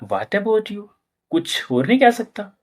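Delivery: mock frustrated muttering; frustrated self-talk. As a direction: grumble it under the breath, annoyed. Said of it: "आप बोलोगे, यार".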